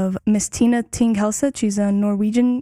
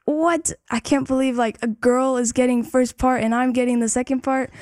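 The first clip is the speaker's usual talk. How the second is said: higher-pitched imitation of an incredulous boy; mildly mock-indignant, pitched up on "What?"; retold disbelief; 3 semitones higher than usual. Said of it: "And he was like".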